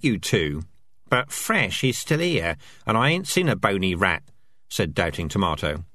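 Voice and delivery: squeaky rat chatter. Acted. Rats voiced in dialogue.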